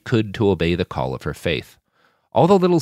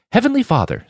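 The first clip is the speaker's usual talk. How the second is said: higher, louder reverent call to God; prayer opening; 14 semitones higher, 5 dB louder than usual. Acted. Saul beginning grace over coffee, reverent prayer voice. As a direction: lift it up to Heaven.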